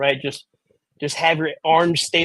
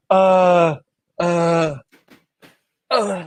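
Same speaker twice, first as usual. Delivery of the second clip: drawn-out moaning "uh" while groping for lines; stalling moans; much slower than usual. Acted. Pretend reporter losing her questions, stalling moans. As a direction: moan each filler as you lose the thread. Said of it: "Uh, the moaning".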